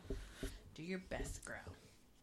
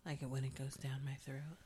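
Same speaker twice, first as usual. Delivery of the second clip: whispering; 9 semitones lower, 7 dB quieter than usual. Acted. Mock ASMR into the mic.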